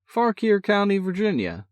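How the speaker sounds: high, bursting with pride; proud. A narrator's reading. Brother announcing his new home, bursting with pride. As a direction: announce it like a prize won. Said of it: "in a voice bursting with pride".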